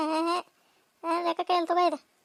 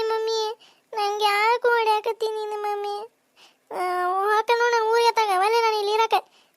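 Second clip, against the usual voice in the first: put-on sulking child; 2 semitones higher than usual. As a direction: sulk and protest like a hurt little girl. Child complains, wants to leave.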